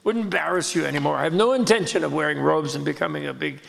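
mock-contrite, half-laughing excuse; sheepish apology. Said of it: "And he said".

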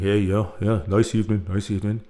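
put-on low, cool-guy voice; voice pulled down. Embarrassed man recovering before strangers, voice pulled down. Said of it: "try to pull my voice down an octave".

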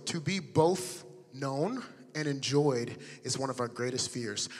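slow, deliberate repeat; slowly. Shown as a demonstration. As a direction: say every word slowly. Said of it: "I'm gonna say it one more time, slowly".

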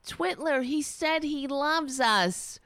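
hint of a naive believer; mock gullible agreement. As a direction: parody the dupes nodding along. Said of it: "supposed to sit there and go".

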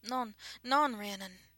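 high, loud frightened plea; desperate French-accented warning; panicked warning. A narrator's reading. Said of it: "warning her in a panic".

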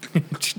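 short voiceless lock clicks; imitated door noise. Telling friends of the intruder, imitated door clicks. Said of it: "and it goes like".

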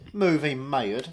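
put-on southern accent. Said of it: "I love that fucking accent".

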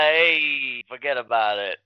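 lightly voiced wiseguy character, drawn-out "Hey"; hint of a wiseguy catchphrase voice; Tony Spagoni. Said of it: "practicing Tony Spagoni's voice".

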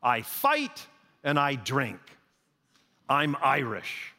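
a hint of a proud brawler, slowing at the end; mock hot-headed Irishman. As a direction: spell out the rule, proudly and slowly. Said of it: "And he says".

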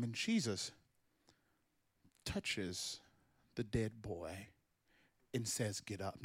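low, soft suspenseful telling; hushed storytelling. Acted. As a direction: pull them in with a near whisper.

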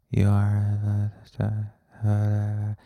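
lightly put-on yogi drone on an even pitch; meditation guide voice. Shown as a demonstration. Podcaster tries out a meditation-channel voice, slow mock-soothing drone. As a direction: draw out the words like a meditation guide. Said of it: "start talking like this".

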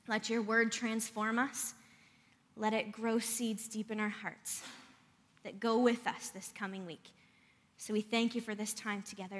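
quiet congregational prayer; spoken prayer. Real, not acted. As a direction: pray softly and reverently, falling away at the amen.

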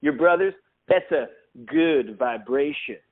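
drawn-out, lightly voiced singer; a hint of a laid-back rock star; impression of a singer. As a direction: savour the good vibration slowly. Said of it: "that's as that singer a sentence".

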